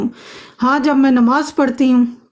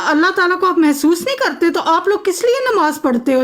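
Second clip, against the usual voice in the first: higher, laughing through the words in disbelief; incredulous laugh; 4 semitones higher than usual. Real, not acted. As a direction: laugh at the idea as you say it. Mocking incredulity in argument. (ہنستے ہوئے حیرت سے کہنا)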